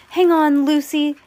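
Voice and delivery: loud high call of encouragement; yell. A narrator's reading. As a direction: shout it across the room. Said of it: "Sam yelled".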